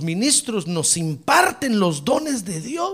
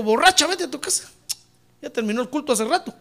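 put-on sharply dismissive old pastor, quicker at the end; scolding priest; 5 semitones higher, faster than usual. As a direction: shoo her away, irritated. Elí sends Ana away. (sacerdote regañando con fastidio)

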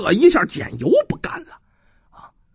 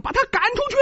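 crowd shout; 13 semitones higher, 4 dB quieter, faster than usual. A narrator's reading. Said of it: "喊了一声".

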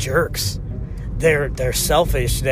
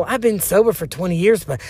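put-on Southern accent with swooping pitch; mock Southern testimony; 3 semitones higher than usual. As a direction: imitate a meeting regular with a Southern accent. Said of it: "make everyone have a Southern accent".

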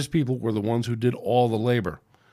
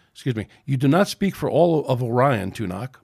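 barked; 4 dB louder than usual. Acted. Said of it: "barked Sanshu".

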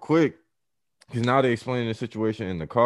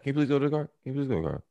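mock polite plea; 6 semitones higher, 3 dB quieter, much faster than usual. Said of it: "talking to him like that".

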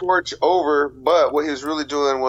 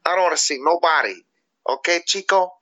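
raised, lightly voiced dealer trash talk; tough-guy promo, mildly higher; wrestling promo; 3 semitones higher than usual. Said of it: "cut a promo as a cocaine dealer".

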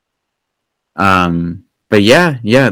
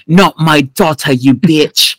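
quoting the boar god; 5 semitones higher, slower than usual. Retold or imitated. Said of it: "Maro's like".

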